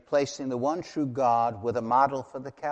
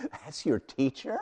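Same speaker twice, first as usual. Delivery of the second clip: "That's your teacher?" said through a laugh; Yahweh laughing at the idol-maker; laughing God. Acted. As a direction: chuckle as you mock the idol. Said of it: "Can you hear the laugh in Yahweh's voice?".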